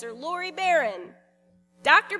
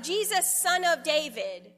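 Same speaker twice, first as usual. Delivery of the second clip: raised, higher call to Jesus; crying out; 4 semitones higher, 4 dB louder than usual. Acted. Blind beggar calls to Jesus, crying out. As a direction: call out a plea, a little raised. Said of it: "Bartimaeus cries out".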